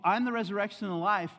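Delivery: high, loud imitation of an impatient Jesus; imagined rebuke. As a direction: declare it forcefully, as if scolding mourners. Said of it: "but you think".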